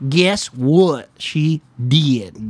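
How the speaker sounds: very slow, drawn out; slow drawn-out teaser. Shown as a demonstration. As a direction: stretch each word slowly for suspense.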